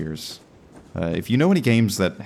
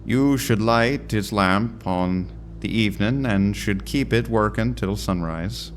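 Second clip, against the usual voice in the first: put-on slow old-timey Irish lighthouse boatman; hammed-up Irish accent, taking it slowly. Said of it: "I don't know why I've made him Irish".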